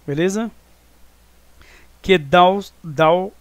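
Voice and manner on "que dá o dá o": "dá o" fused into one syllable, pressed louder; spoken joined together. Shown as a demonstration. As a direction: run "dá o" together as one beat, firmly. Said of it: "aqui você fala junto".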